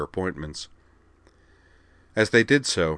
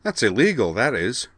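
high, loud indignant protest; 6 semitones higher, 5 dB louder than usual. A narrator's reading. Devlin objecting to the scan of Kate, indignant. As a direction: pitch it up in outrage. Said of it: "Devlin Carter noted indignantly".

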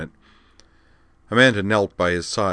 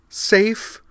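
even higher bitter echo of the word; bitter repeat; 5 dB louder than usual. Acted. Liza repeats it at Wakaba, bitterly incredulous. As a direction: repeat it with sharper scorn. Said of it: "the blonde repeated".

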